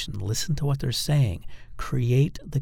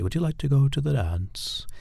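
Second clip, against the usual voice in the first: higher-pitched regal invitation to the dance; royalty; 4 semitones higher than usual. Shown as a demonstration. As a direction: ask it as if you were royalty. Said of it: "it almost sounds like royalty".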